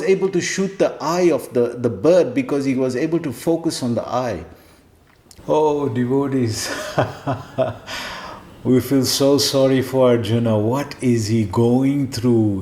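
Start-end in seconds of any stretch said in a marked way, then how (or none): 5.5-12.6 laughing. Real, not acted. Laughing sympathy for Arjuna.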